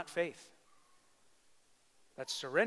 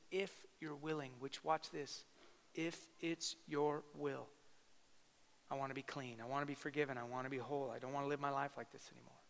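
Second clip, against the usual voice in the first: humble plea; 7 dB quieter than usual. Retold or imitated. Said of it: "he said".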